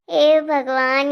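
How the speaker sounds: slow, fond exasperation; drawn-out exasperated sigh. Acted. Grandma fondly exasperated by the bahu's sweetness, slow drawn-out sigh. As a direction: stretch out the hey out of affectionate disbelief.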